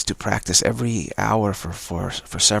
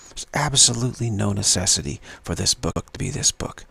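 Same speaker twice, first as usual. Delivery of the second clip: "absolutely" stressed, steady and firm; adamant. Shown as a demonstration. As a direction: insist with weight on "absolutely". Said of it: "It can be more adamant like that".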